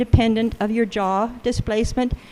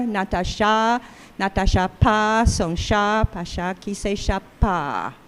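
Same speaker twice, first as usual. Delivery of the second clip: French phrasing; 2 semitones lower than usual. Shown as a demonstration. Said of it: "the end of each A P, accentual phrase, opens the jaw more".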